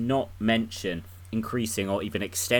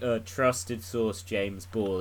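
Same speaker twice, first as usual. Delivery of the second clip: slow, ironic source credit; scathing tone; 3 dB quieter, much slower than usual. Shown as a demonstration. Host showing how he'd mock a journalist, scathing. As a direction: draw out the credit with scathing irony. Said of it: "from my scathing tone".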